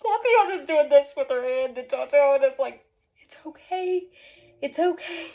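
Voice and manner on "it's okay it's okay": hushed, higher-pitched reassurance; soft, spaced-out comforting repeats; soothing. Retold or imitated. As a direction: imitate a friend calming someone down. Friend soothing her in panic.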